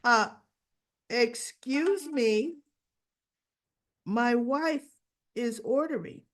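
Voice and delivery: slow, emphatic correction; stretched-out, indignant excuse me; indignant husband. Retold or imitated. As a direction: pointedly stop the waiter, word by word. Acts out husband correcting waiter.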